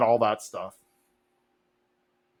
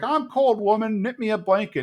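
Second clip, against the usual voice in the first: put-on much higher, barking old-man order; bossy Cotton; 9 semitones higher than usual. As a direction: demand it from your recliner. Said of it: "he's like".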